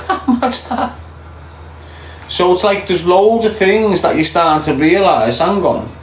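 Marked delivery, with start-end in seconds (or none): 0.1-1.0 high incredulous laugh through the words. Real, not acted. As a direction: laugh it out, slow and amused. Laughing disbelief at funeral laws.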